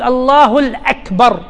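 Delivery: "الله الأكبر" said slowly with an added article al- before أكبر; slow demo of mistaken "الله الأكبر", article joined on; incorrect takbir wording. Shown as a demonstration. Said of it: "هذا ما تصح".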